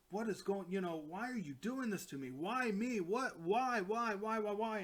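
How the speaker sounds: pleading. Retold or imitated. David begging Thanos why, in a mildly pleading voice. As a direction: beg him why, lightly acted.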